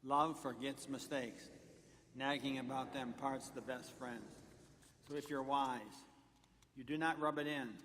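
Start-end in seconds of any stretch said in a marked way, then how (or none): 0.0-4.3 slow, measured read-along; reading aloud together. Real, not acted. Preacher leads the congregation in a verse, slow read-aloud. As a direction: read slowly so a group can keep up. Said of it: "read it with me together out loud".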